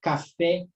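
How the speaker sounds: slow "Café" with weight on the final FÉ; teacher showing the stressed last syllable of "Café". Shown as a demonstration. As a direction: lean on FÉ in "Café". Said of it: "O fé é a sílaba mais forte".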